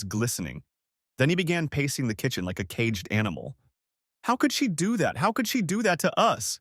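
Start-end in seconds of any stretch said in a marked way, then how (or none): 4.2-6.6 much higher, a cracking yell; hurt son yelling it out, pitch breaking high; teenage son raging at his mother's betrayal, cracking yell. Acted. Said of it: "he yelled, voice cracking".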